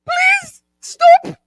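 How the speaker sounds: high, whining plea; mock pleading. Woman replaying her plea for a cab, mock tearful. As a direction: beg like a worn-out, crying child. Retold pleading to stop walking.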